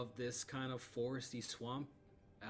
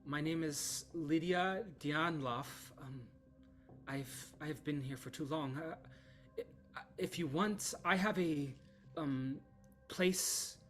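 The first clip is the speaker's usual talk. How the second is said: higher, hesitant, asking a favour; tired injured young woman; 4 semitones higher than usual. Acted. Lydia asks the party to take her to camp, weary. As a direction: ask for help shyly, worn out.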